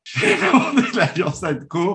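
slow restart through a laugh; trying not to laugh. Real, not acted. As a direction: fight back the giggles. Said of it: "excusez-moi".

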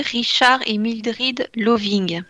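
"Richard et Mildred Loving" said slowly in an English accent; English accent names. Real, not acted. Radio guest naming her chosen couple, names said slowly in an English accent. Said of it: "désolée pour mon accent anglais".

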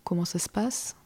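unvoiced whisper of panic to herself; a hushed, worried self-question; whispered inner thought. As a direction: breathe the question under your breath. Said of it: "je me dis".

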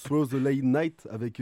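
slow English title in a heavy French accent. Real, not acted. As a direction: say "Throw the Late Night" in a strong French accent. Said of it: "j'ai un accent anglais, euh, de merde".

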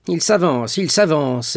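high, loud alarmed echo; alarmed repetition. A narrator's reading. King echoes the minister's news in high alarm. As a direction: repeat it in alarm.

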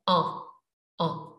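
"On" said through a pinched nose, nasal ah; nasal French "on" demo. Shown as a demonstration. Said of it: "you pinch your nose and you make it more nasal".

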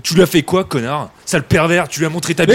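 loud accusing shout; angry insults. Acted. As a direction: yell the insults at him. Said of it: "Mais oh, oh, on va se calmer".

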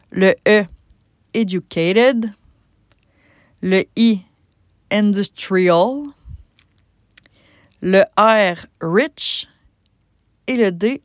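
spelling out the acronym with an English accent on the English words. Shown as a demonstration. Coach spelling the acronym with a playful English accent. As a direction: say Western, Educated, Industrial, Rich with a playful English accent. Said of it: "je vais vous gâter avec mon accent anglais".

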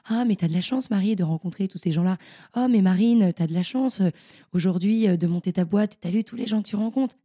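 mock envious people. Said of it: "Les gens, souvent, ils te disent".

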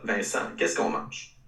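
slow, nasal talk-show host voice; drawn-out question through the nose. Retold or imitated. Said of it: "Guy Lepage dit avec une voix nasillarde".

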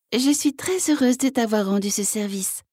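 a lightly voiced gentle frog; gently. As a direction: answer gently as the little frog. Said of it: "répondit doucement la grenouille".

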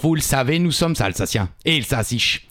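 put-on light Alsatian accent. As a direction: speak with a hint of Alsatian accent. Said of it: "C'est l'accent en Alsace, hein, que je suis en train de vous faire".

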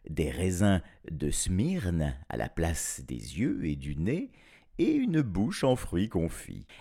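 measured, expressive fairy-tale narration; storytelling. A narrator's reading. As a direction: tell it to children with swooping intonation.

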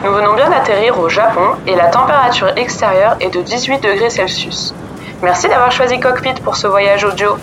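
airline captain's cabin announcement; calm pilot voice over the intercom; pilot cockpit headset. Pretend.

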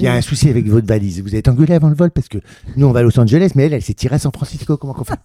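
loud, chummy comic patter; plain-spoken, informal. Acted. Steward joking with passenger about a runaway suitcase, informal. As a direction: break the bad news as a casual joke. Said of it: "que je leur parle simplement comme ça".

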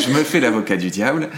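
phrase dite à travers un petit rire; avoue-le en riant franchement. Real, not acted. Avoue en riant jouer l'avocat. (il s'excuse de jouer l'avocat du diable, en riant)

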